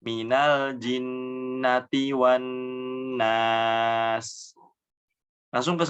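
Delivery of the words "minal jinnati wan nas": slow melodic tajwid chant; Quran recitation. Acted. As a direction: recite the verse slowly, drawn out.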